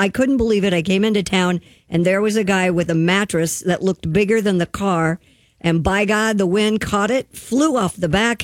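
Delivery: ordinary delivery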